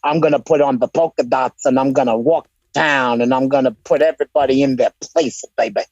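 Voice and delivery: hams up a heel promo for laughs; mock wrestling promo. Co-host riffs to his friend in a lightly hammed-up wrestling promo voice.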